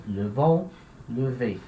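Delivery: "le vont, le ve" with weak "euh" in "le"; som não muda. Shown as a demonstration. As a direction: show "le" unopened before each strong syllable. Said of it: "o som também não muda". ("le vont, le ve" com "le" fraco, som de "eu" francês)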